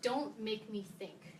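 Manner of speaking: slow, each word weighed, stress on Don't; slow emphatic title quote. Shown as a demonstration. Quoting the book title to the class, slow and emphatic. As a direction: spell out "Don't make me think" slowly, leaning on "Don't". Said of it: "to quote the title of my favorite user experience book".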